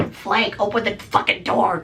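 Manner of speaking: high, slow angry demand; cursing grandma. Acted. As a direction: imitate grandma demanding the door open. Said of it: "Cursing out the".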